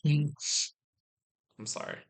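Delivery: slow, laughing sorry; laughing apology. Real, not acted. Vlogger laughing after bumping the laptop, slow sorry.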